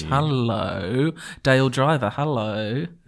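creepy, eerie voice. Greeting a co-host at the start of a podcast: creepy greeting. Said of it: "He started the creepiness off".

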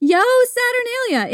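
mock very high, festive, cheering shout. Speaker acts out what people shouted to each other in the streets at Saturnalia. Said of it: "People would shout to each other".

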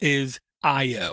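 spoken really slowly, drawn out. Comparing this device to a Nook, naming its advantage very slowly. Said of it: "I'm saying this really slowly".

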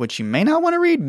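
squeaky, very high, quickly rattled off. Mentioning a book on parasites, the speaker's voice goes high-pitched. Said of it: "you hear how high my voice got on that".

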